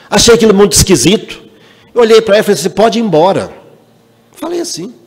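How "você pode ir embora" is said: rude dismissal. Retold or imitated.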